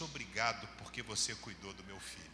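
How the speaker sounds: low, soft retelling of a mother's gratitude; tender thanks. Retold or imitated. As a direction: quote a mother's heartfelt thanks, hushed. Mother thanks her son's captor. (agradecimento materno, terno e baixo)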